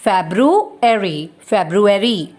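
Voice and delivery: February slowly, "Feb-roo-ary"; slow correct pronunciation. Shown as a demonstration. Teacher spelling sounds for class, slow February. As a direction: draw out February, all syllables. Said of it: "The correct pronunciation is".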